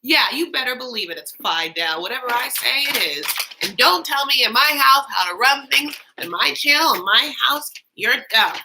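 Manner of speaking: loud, high mock rant; mock tantrum. Ranting at cohost over the name, mock-angry. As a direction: play the bossy host in a fake huff.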